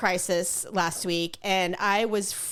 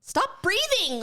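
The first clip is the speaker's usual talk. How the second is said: mock irritation; 10 semitones higher, much slower than usual. Snapping at husband in car.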